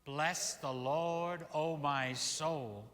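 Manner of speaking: slow, measured recitation; psalm said together. Acted. Minister reciting the psalm aloud with his congregation. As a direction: lead the congregation through the psalm. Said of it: "Do you want to say it with me?".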